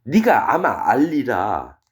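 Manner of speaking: slow, drawn-out mock solemnity; sarcastic. God needling Job about his many years, sarcastic. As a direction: read it as a drawn-out taunt. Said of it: "하나님이 지금 욥을 비꼬는 거예요".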